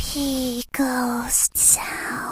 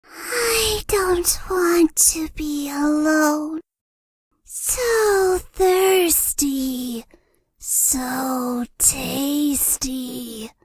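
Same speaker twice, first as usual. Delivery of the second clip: eerie ghost murmuring slowly; a lonely ghost sighing its lines; a hint of a hungry ghost, drawn out; creepy ghost. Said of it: "Or do I sound kind of creepy".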